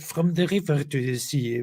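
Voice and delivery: put-on light French accent. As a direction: read it with a French lilt. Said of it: "That's also perfect in a French accent".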